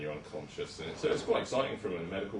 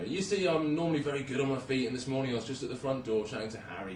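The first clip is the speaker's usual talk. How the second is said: put-on elderly patient Doris; 6 semitones higher, 4 dB louder than usual. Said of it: "This is Doris".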